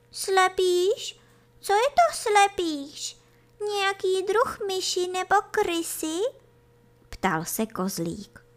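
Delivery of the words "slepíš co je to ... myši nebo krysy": put-on high, questioning kid-goat voice; puzzled little kid. A narrator's reading. Kid questions unknown creature. (nechápavě, vysokým hláskem)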